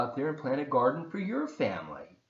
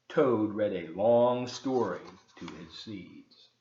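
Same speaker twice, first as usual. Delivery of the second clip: story narration; 3 semitones lower than usual. A narrator's reading. Reads Frog and Toad aloud.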